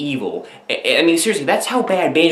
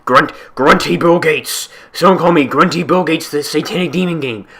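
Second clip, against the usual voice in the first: evil demon game voice; 5 dB louder than usual. Acted. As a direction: boom out the evil game's threats. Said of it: "I'm a demonic game possessed".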